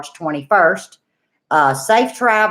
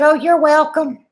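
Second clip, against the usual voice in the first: Anna's reply; 8 semitones higher, 3 dB louder than usual. Retold or imitated. Voicing Anna on phone.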